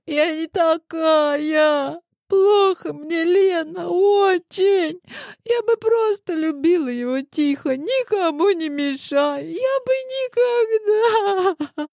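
high, slow, crying plea; со слезами, умоляюще; tearful pleading. A narrator's reading. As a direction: sob through the words. Tearful girl sobbing on the phone.

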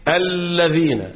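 الذين stretched very slowly as /ælːeðinæː/ with a long doubled لام; slow drawn-out example. Shown as a demonstration. Teacher to class, slow stretched demo. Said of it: "بنقول مثلًا إيه؟".

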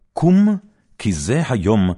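a sudden high, loud "קום" to rally; Deborah's battle call to Barak, loud and high; rousing call. Acted. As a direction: jolt him up with one ringing word.

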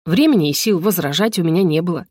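plain reading voice

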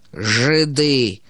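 low, dark bark; gloomy drunken shout. A narrator's reading. Karas, drunk at the table, shouting gloomily. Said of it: "мрачно крикнул опьяневший Карась".

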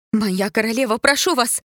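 high, loud alarmed plea; pleading cry. A narrator's reading. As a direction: beg the queen to stop. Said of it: "вскрикнула она".

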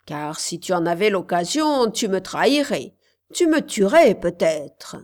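a hint of a menacing witch. Witch speaks to the girl.

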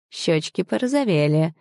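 plain reading voice

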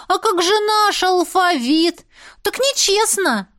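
high, slow whining complaint; high whiny child. Acted. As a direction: whine that it's unfair. Boys complain about alphabet.

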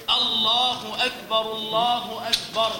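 slow, drawn-out الله أكبر for error spotting; faulty adhan phrase. Shown as a demonstration. Teacher sets class hunting common errors, slow demo recitation. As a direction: recite الله أكبر slowly, stretching the vowels. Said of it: "استخرج ما فيها من أخطاء شائعة".

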